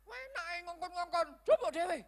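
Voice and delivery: high, rising mock-angry retort; hammed-up indignant wife, ending loud; annoyed wife. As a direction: snap back in a high, put-on scolding voice. Acts wife annoyed at being ordered.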